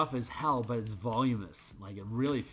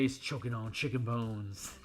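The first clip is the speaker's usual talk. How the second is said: imitating the kid. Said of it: "I could hear him say".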